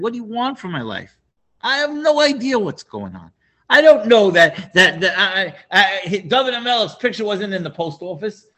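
high, pleading Achimelech, voice up high; exasperated protest. Retold or imitated. High exasperated plea. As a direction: Achimelech pleads his innocence to the king, exasperated and high-pitched.

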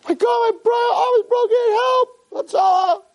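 high shouted cry for help over a broken arm; acted scream of pain. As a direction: yell it out like the bone just snapped. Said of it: "He starts to scream".

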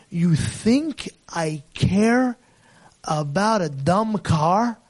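father gently dismissing his son's apology, slow; slow, dismissive. Acted. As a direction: drag it out, brushing the car aside.

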